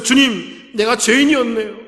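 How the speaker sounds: earnest plea for forgiveness; tearful confession. Retold or imitated. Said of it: "눈물을 흘리며 울면서".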